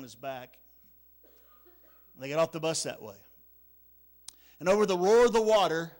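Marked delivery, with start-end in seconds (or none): 4.6-5.9 louder, rising over the roar; building sermon intensity; raised preaching voice. Acted. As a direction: preach it loud and dramatic. Telling of the flood.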